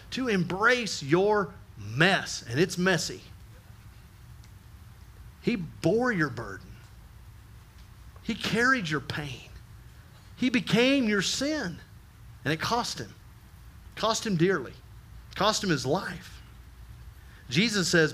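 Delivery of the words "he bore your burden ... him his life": solemn, quiet. Acted. Solemn preaching.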